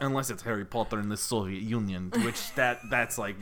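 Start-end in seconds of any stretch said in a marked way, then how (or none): 0.0-2.1 put-on Russian accent. Shown as a demonstration. Podcaster pitching a Soviet sequel title, Russian accent. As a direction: slip into a rough Russian accent. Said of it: "good accent I have is a Russian one".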